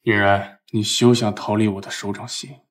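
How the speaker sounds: low, commanding bossy tycoon voice; domineering ceo. Acted. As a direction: play the arrogant romance-novel CEO. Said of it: "你是不是在学霸道总裁？".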